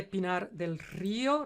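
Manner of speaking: Río drawn out on the í, RÍ-o; stress on the I. Shown as a demonstration. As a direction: lean slowly on the í in Río. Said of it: "cae la fuerza de la pronunciación en la I".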